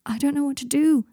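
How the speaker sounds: Harry frantic at Draco's pain; wild. Acted. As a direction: blurt it out at a loss. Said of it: "said Harry, wildly".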